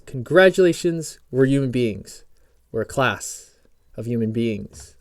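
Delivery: lightly put-on British accent; fake British accent. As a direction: carry on the mock British reading. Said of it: "Fake British accent".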